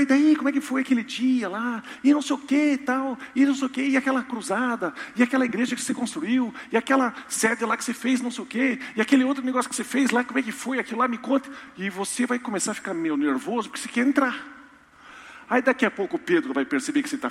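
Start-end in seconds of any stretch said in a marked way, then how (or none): 0.0-11.5 Peter's teasing questions. Pretend. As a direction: needle him playfully about his deeds. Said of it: "ele vai perguntar". (São Pedro provocando, voz aguda e alta)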